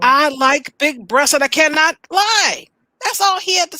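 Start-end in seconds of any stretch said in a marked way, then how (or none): 0.0-2.7 slowed down, every word laid out; slow proud declaration. Retold or imitated. Professor telling the school to own it, slow and proud.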